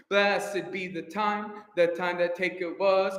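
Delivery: slow, measured rhythmic speech; spoken in rhythm. Shown as a demonstration. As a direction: speak it evenly in time. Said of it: "Can we speak it once? Speak it in, in rhythm".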